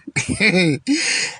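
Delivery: short scoffing laugh; derisive chuckle. Real, not acted. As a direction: chuckle in disbelief. Ridiculing the president.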